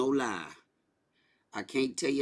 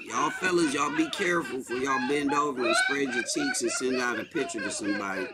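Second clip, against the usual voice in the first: laughing warning. Real, not acted. Joking warning while laughing.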